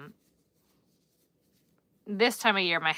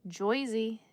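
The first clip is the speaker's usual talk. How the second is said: New Jersey accent; 3 semitones higher than usual. Shown as a demonstration. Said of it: "New Jersey".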